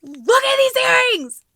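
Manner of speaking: high, loud and slow with delight; excited shout. Real, not acted. Vlogger shouting over gift earrings, excited. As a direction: shout it out in pure joy.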